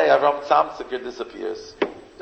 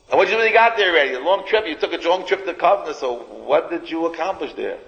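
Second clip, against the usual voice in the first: mocking townsfolk; 4 semitones higher, faster than usual. Townsfolk mocking his long trip.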